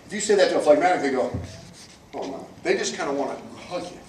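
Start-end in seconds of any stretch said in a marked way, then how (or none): 2.1-2.5 timid mock reply. Phlegmatic reacts to challenge.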